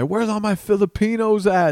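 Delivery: rally the crowd, pitch up; hyped crowd call. Retold or imitated. Imitating comic hyping the crowd.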